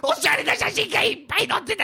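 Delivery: mock wailing lament.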